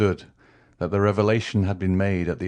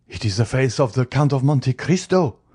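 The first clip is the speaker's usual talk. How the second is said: higher, louder cry of dread; haggard exclamation; 5 semitones higher, 4 dB louder than usual. A narrator's reading. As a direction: recoil as the mask drops. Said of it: "exclaimed the Procureur, with a haggard expression".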